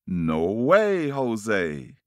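swooping refusal, loud then falling away; emphatic refusal. Acted. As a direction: refuse with a big rise and fall. Sheep refuse the bird's plea.

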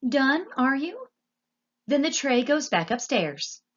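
put-on uneducated girl laying down the rules; brash serving girl. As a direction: rattle off orders in a high, self-important voice. Voices Meg in the story.

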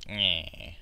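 imitating a whiny accent ending; tacked-on mocking whine. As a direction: whine out a mock little syllable. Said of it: "that kind of whine".

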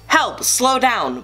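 yelling. Acted. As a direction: cry out as the cart races off. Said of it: "both boys yelled".

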